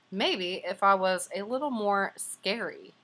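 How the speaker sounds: lightly voiced hopeful bear; wondering bear. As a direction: muse on looking scarier. Bear wonders, read aloud.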